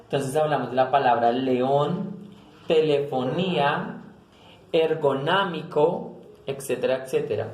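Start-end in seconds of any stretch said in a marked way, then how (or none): 1.3-6.2 "león, telefonía, ergonámico" slowly, stretching each accented vowel; mid-word stress. Shown as a demonstration. Teacher lists examples of llanas, slow stressed vowels. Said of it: "siempre va en la mitad".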